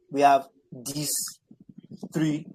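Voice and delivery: slow, each syllable set apart. Shown as a demonstration. Teacher to pupil, slowly counting syllables. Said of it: "let's count the syllables".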